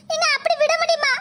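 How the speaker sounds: fake crying. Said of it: "நடிப்பு நடிக்காம".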